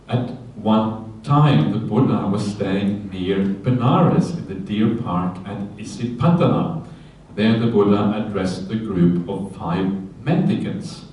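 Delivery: slow, measured reading of the sutta; scripture reading. Acted. Monk reading the sutta aloud to his listeners, slow and measured. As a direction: read the opening slowly, like a text.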